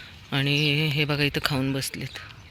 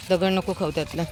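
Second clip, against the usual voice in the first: ordinary talk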